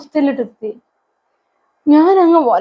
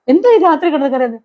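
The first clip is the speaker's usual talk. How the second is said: higher, puzzled exasperation of a son; son's exasperated question; 3 semitones higher than usual. Retold or imitated. Son asking his crying mother at night, exasperated and higher. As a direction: ask why she's crying at three in the morning, raised up.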